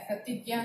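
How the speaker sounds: प्रतिज्ञा with 'gy', 'pra-tig-yaa'; Hindi pronunciation. Shown as a demonstration. Teacher showing how Hindi sounds it, Hindi pronunciation. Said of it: "उच्चारण इसका हिंदी में इस तरह से होता है".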